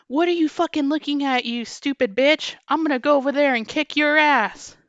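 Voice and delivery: hammed-up furious customer; mock angry yell. Retold customer threatening the cashier, mock yell.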